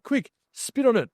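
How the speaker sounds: quick, high and urgent; sudden urgent order, pitched high; urgent high command. Retold or imitated. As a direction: blurt it out in a panic.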